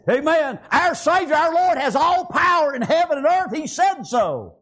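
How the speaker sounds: emphatic sermon proclamation; fervent preaching. Real, not acted. Preacher declaring the Lord's power to congregation, fervent.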